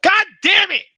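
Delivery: high, loud god damn; groaning at a bad roll; frustrated outburst. Real, not acted. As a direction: blurt it out in real frustration. Player reacts to the check.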